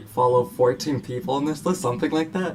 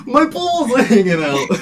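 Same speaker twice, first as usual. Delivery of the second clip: much higher and louder, laughing Brooklyn yell of "My balls are hanging out!"; screamed Brooklyn accent; 11 semitones higher, 9 dB louder than usual. Retold or imitated. At the fridge, screaming the comedian's punchline in a laughing Brooklyn yell. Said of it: "and I'm screaming".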